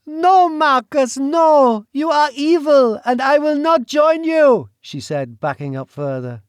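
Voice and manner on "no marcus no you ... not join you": high, loud refusal; defiant shout. Acted. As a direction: hurl the refusal at him. Celine defying the duke.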